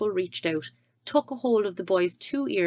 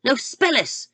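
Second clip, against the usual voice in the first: louder, slow spelling shout; 7 semitones higher, 8 dB louder than usual. Acted. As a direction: drill each letter at him. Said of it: "The Trunchbull was shouting".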